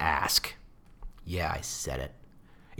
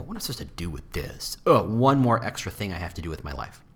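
grumbling recruiter; 4 semitones lower than usual. Retold or imitated. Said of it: "in their head they go".

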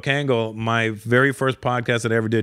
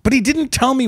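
laughing; 4 semitones higher than usual. Real, not acted. Laughing while retelling.

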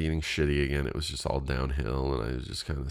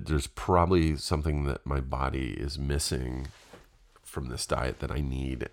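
junkie. Retold or imitated. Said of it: "I sounded like a junkie".

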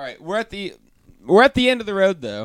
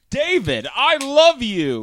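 high, drawn-out swooning "love you"; gushing declaration; 9 semitones higher, 4 dB louder than usual. Acted. Host reads a listener's love note aloud, gushing. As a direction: read it as an over-the-top love cry.

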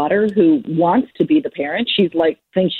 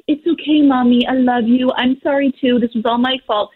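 put-on higher, sing-song little kid voice; sweet apologetic child; 4 semitones higher than usual. Mother imagines her child forgiving her, in a higher sweet kid voice. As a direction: play the perfectly forgiving child. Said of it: "expect them to be like".

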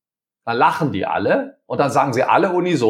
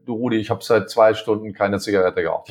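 lower, friendly "Du Rudi, ich habe seit zwei Stunden keine Zigarette geraucht"; 6 semitones lower than usual. Shown as a demonstration. Employee asking Rudi kindly for a smoke break, friendly tone. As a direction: say it like a friendly, honest request. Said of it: "der Unterton ist ganz, ganz wichtig".

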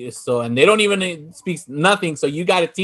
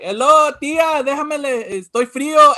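Javier's voice; 6 semitones higher than usual. Retold or imitated. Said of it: "he's like".

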